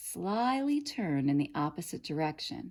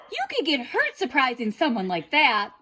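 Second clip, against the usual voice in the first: put-on girl's voice; 7 semitones higher, 5 dB louder than usual. A narrator's reading. Girl warns wolf.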